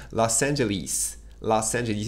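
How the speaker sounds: "Los Angeles" with British vowels, ending "lis"; British pronunciation. Retold or imitated. Teacher imitating how English people say the city. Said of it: "Les Anglais prononcent ça".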